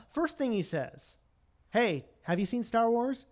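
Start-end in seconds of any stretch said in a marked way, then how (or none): 1.7-3.2 a touch higher, louder, hailing another ship; lightly hammed-up mad captain; mock Ahab. Captain hailing a passing ship, mock eager. Ahab's odd greeting, acted.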